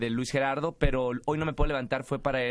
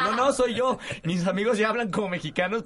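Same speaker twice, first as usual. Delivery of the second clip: retold exclamation; 5 semitones higher than usual. Retelling his own reply.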